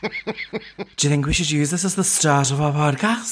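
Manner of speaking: playful put-on Scouse; Scouse accent. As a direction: ask it in a Scouse lilt. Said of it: "just fully in Scouse".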